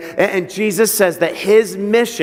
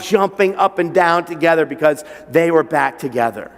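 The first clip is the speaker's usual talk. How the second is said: normal talking voice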